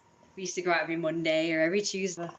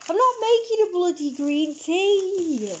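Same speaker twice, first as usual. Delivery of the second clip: annoyed shout; 10 semitones higher, 7 dB louder, slower than usual. Real, not acted.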